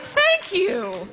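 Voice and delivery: bursting into laughter mid-reply; laughing thanks. Real, not acted. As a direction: thank him while cracking up. Laughing at kid's dark compliment.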